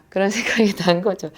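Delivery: ordinary talk, nothing marked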